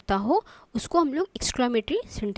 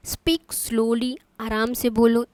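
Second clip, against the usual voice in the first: slow request; 3 dB louder, much slower than usual. Shown as a demonstration. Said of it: "request कर रही हूँ".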